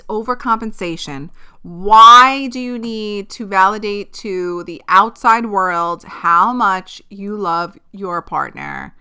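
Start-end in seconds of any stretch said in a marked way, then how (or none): 1.6-8.9 indignant rant. Real, not acted. Ranting about overcompensating partners.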